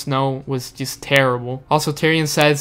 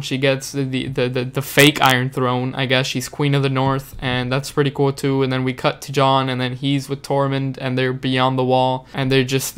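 usual speaking voice

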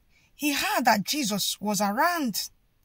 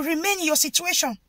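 oppressive command; 4 semitones higher than usual. Retold or imitated. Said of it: "they are telling you".

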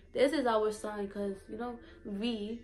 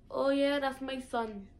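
higher Saint Thomas lilt; Virgin Islands accent; 4 semitones higher than usual. Retold or imitated. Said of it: "it'd be like".

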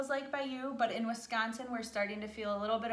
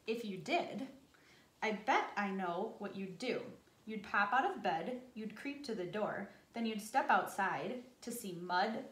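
put-on gentle storybook narration for children; story reading. A narrator's reading. Reads picture book aloud.

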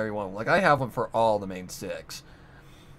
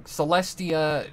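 regal voice; 6 semitones higher, 3 dB louder, much slower than usual. Shown as a demonstration. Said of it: "deeper area of my throat".

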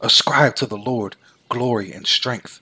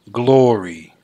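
a louder ringing exclamation, but not a full shout; temple cry; 6 dB louder than usual. A narrator's reading. Reading the psalm, the temple crowd cries out in praise. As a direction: lift the word out as a joyful cry of praise. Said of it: "And in his temple all cry".

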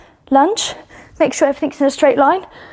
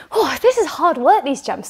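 panting between words; breathless after jumping; out of breath. Real, not acted. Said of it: "getting a bit out of breath here".

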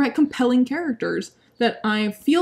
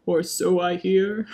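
mock old-timey line; 4 semitones lower, slower than usual. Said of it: "peppered in some".

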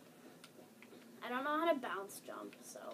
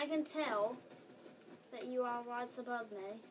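playful put-on British accent; 4 dB quieter than usual. Player teases friend from below, British accent. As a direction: say it slightly posed, in mock British. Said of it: "with a British accent".

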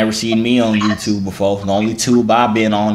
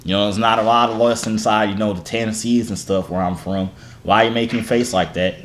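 put-on country-accent sweet talk. Charming a young queen online, in a country accent. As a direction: lay on a Southern country accent. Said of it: "let me do a break from the accent".

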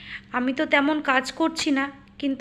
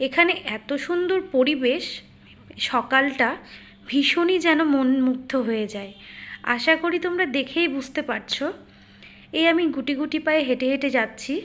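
talking with a toothbrush in mouth; while brushing teeth. Real, not acted. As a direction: speak around a toothbrush. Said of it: "আমি চলে এসেছি পার্কে brush করতে করতে".

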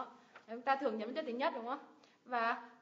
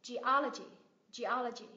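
"Geology" as ge-O-lo-gy; stress on second syllable. Shown as a demonstration. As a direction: punch the O in "geology", then fall. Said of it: "cái cách nhấn âm trong những cái từ này".

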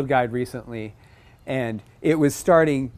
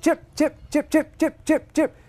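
imitated bird chips; 14 semitones higher than usual. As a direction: chirp like a cardinal. Imitating cardinal chip calls.

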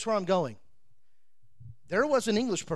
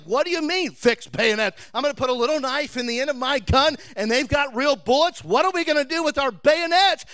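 incredulous; 3 semitones higher than usual. Pretend. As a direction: play the baffled soldier questioning the order. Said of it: "I'd be like".

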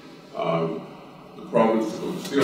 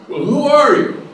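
high, loud desperate plea; a mock-frantic man clinging to a tree; pleading; 11 dB louder than usual. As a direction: beg for help, voice pitched up in panic. Man asks in joke.

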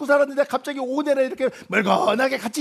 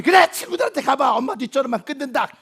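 huffy hang-up. Acted. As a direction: slam the conversation shut. Mother hangs up in a huff.

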